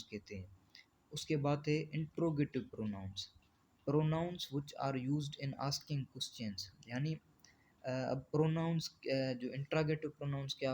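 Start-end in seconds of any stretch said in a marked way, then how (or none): 3.9-6.9 very slow, word-by-word reading of the definition; slow dictation. Shown as a demonstration. Teacher dictating a definition to the class, very slow and even. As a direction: spell the definition out slowly for students to copy.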